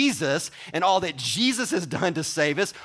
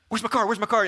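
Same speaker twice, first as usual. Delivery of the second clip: frantic pocket patting, higher and louder; mock panic; 6 semitones higher, 3 dB louder, much faster than usual. Preacher plays a shopper hunting for a card, mock panic. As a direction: fumble for the card in a fluster.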